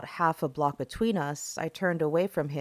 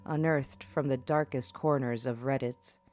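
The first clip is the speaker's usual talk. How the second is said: horror host; 2 semitones lower than usual. Acted. Horror podcast host intro.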